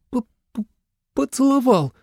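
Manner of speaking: high, stammered, embarrassed word; stammering girl. A narrator's reading. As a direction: force the word out through a stutter. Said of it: "заикаться начала". (заикаясь, выдавить смущающее слово)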